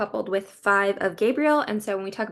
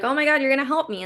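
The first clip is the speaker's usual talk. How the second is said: quick, lightly excited gush; a touch of childlike glee, rushed; excited angel; 4 semitones higher, much faster than usual. Acted. Angel thrilled that the other angel will help, mildly excited. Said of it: "the angel's so excited".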